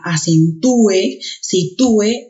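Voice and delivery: acentúe, sitúe with a forceful TÚ-e; stress on the ú. Shown as a demonstration. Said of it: "se puede pronunciar con mayor intensidad".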